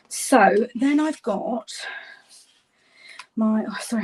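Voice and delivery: breathless from running the stairs; out of breath. Real, not acted. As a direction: talk while catching your breath. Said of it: "I'm out of breath".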